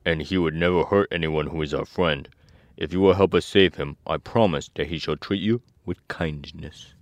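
lightly voiced earnest scarecrow; a hint of a pledging scarecrow. A narrator's reading. Scarecrow promising the mice safety, lightly put-on voice.

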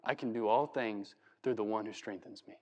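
low, soft, humble voice; humble chained Paul. Pretend. Paul in prison dictating the verse, soft and humble. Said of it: "He's telling this".

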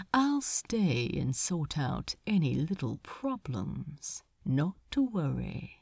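soft, falsely kind demon; patronizing gentleness. Acted. Asmodeus soothing Crowley, soft and patronizing. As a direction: coo it like a condescending parent. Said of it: "He spoke so gently, so patronizingly".

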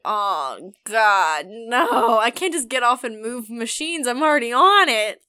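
retold dismay. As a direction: act out being stuck and fed up. Retold dismay, stuck beside smelly man.

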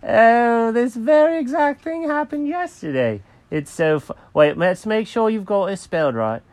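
high-pitched cartoon cat, unworried; Jenkins the cat, amused. Cat tells the clerk this happened yesterday, high and amused. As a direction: brush it off in a high character voice.

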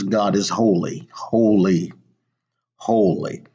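each "holy" set apart by pauses; measured, reverent emphasis on "holy"; emphatic repetition. Retold or imitated. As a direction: weigh every "holy" on its own. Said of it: "there is emphasis on the word holy".

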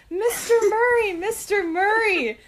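high, timid call across to the star; mom's nervous high-pitched calling. Retold or imitated. Mom working up the courage to call Andy Murray, high, nervous call. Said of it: "She said".

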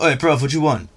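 lightly acted matey geezer. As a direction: greet a vague acquaintance like a cheeky mate. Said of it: "quite bumbling, but if it was someone I vaguely knew".

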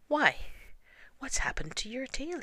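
a little bear suddenly noticing; surprised Pooh. Acted. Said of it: "he said in surprise".

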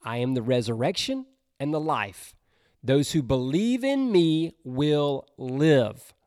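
measured reading of John to a congregation; scripture reading. Acted. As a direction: read the verses with reverence. Reads scripture aloud.

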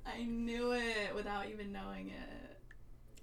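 high, slow laughing gloat; laughing triumph. Real, not acted. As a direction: crow it, laughing. Guess proved right.

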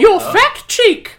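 put-on high, slow Southern Belle accent, fat stressed; loud Southern Belle drawl. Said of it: "You wanted the Southern Belle voices".

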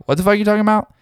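confused smoker. Retold or imitated. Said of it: "Most people are like".

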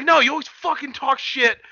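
high-pitched mock angry outburst; pissed-off retort. Retelling a wrestler arguing with the host, high pissed-off retort. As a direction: throw it back heatedly, imitating an argument. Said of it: "he got a little pissed off".

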